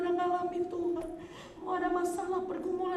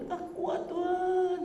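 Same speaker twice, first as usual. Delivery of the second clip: tearful plea; 5 semitones higher, slower than usual. Retold or imitated. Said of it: "Saya cuma bisa nangis".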